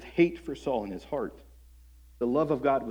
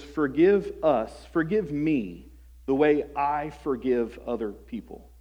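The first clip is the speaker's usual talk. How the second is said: Forgive us drawn out slowly, each word weighed; slow, deliberate emphasis; 3 dB louder, slower than usual. Shown as a demonstration. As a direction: let Forgive us sink in, very slow. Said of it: "as you prayed those words".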